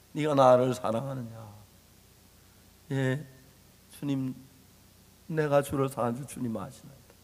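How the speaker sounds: hushed dialogue. Acted. Jesus and Peter dialogue retold.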